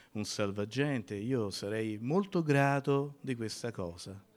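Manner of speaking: exaggerated good manners, no urgency; overly polite request. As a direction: ask for help as if at a tea party. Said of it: "si schiarisce la voce".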